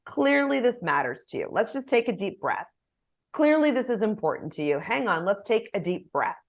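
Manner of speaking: hushed and reassuring, take a breath; soothing. Shown as a demonstration. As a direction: settle them down gently. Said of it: "I can say".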